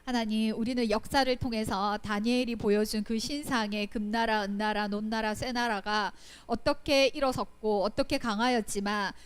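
steady, earnest prayer voice; closing prayer. Real, not acted. Preacher closing the lesson, praying earnestly for the children.

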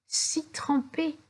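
si trempé drawn out slowly; slow emphasis. A narrator's reading. Narrator lingering on si trempé, slow and high. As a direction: stretch si trempé out.

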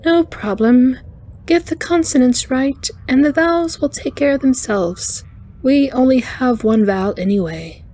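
high, chiming alien voice; cheerful arachnoid engineer. A narrator's reading. Alien reassuring the captain about her name, high chiming voice. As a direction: chime it out high and easygoing.

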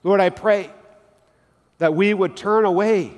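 earnest, measured pastor's prayer; closing prayer. Acted. Pastor praying over the congregation, reverent and earnest.

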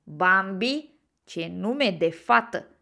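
loud, drawn-out taunt; teasing. A narrator's reading. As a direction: needle him to provoke a fight. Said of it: "începu el să-l tachineze pe Bambi". (tachinător, provocator)

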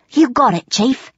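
high-pitched goblin underling; obedient goblin guard. A narrator's reading. Lone guard to goblin chief, obedient. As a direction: snap back a willing reply.

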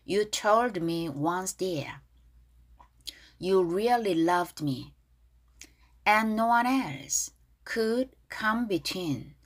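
very slow, evenly spaced lyric lines; pronunciation read-through. Shown as a demonstration. Teacher leading learners through the verse, slow read-along. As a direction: draw out each word, pausing between phrases. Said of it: "여기 발음 다시 한번 해볼게요".

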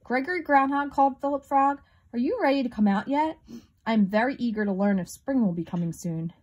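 loud booming call. Acted. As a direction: boom it out. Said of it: "Philip's deep voice boomed loudly".

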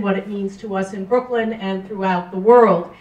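ordinary talk

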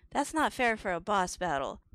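ordinary delivery

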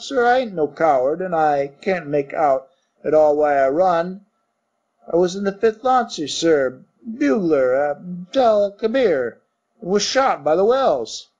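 lightly voiced Cockney servant; Cockney bellboy. Thomas the bellboy answering his master, light Cockney. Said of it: "Cockney dialect".

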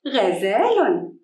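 slow غزال with a drawn-out "aa"; long alif vowel. Shown as a demonstration. Teacher confirming the madd to pupils, stretched vowel in غزال. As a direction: hold the "zaa" in غزال. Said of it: "مد الألف".

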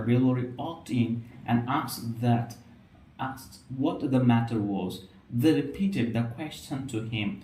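slow, measured read-aloud with aspirated k, p and t; deliberate English pronunciation model, phrase by phrase; careful demonstration reading. Shown as a demonstration. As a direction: read slowly, stressing the puffed consonants. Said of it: "তিনটা জায়গায় কিন্তু basically জোর দেওয়ার চেষ্টা করেছি".

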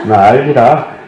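laughing through a Jeolla-dialect plea; fond mock Jeolla line. Monk repeating the Jeolla pilgrim's plea, laughing. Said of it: "전라도 분들 ... 하시는 말씀이란".

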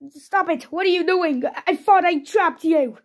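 high, protesting voice; play-acted flustered villain; mock alarm. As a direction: protest as the captives turn on you. Villain attacked by freed captives.

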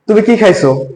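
"কি" with a lengthened i vowel; long কী. Shown as a demonstration. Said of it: "যদি একটু লম্বা করে বলি".

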